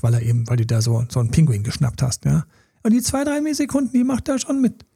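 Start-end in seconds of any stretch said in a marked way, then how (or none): 2.8-4.9 high playful. Real, not acted. Joking about partner tolerating it.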